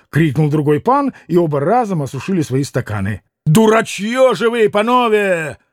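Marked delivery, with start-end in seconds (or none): 3.4-5.6 high, exasperated outburst; sudden exclaimed rebuke; blurted insult. A narrator's reading. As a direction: let it burst out indignantly, pitch raised. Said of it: "сорвалось вдруг у Мити".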